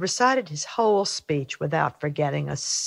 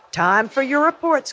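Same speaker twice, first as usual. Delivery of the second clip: raised teacher's call to the class; a calling teacher voice, a bit louder; 10 semitones higher, 4 dB louder than usual. A narrator's reading. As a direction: call it out to the group. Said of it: "called Mister Ratburn".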